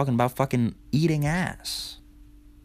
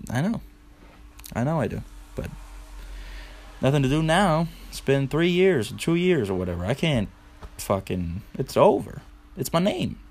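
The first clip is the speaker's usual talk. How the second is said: mock resignation; 5 semitones higher than usual.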